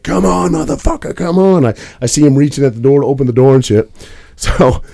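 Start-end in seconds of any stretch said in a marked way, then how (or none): 0.0-1.6 imitating taunting driver. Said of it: "He's like".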